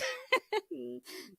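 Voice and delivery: a high, loud burst of laughter; loud rueful laugh. Real, not acted. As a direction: laugh at your own bad luck. Laughs at dreaded Halloween sermon.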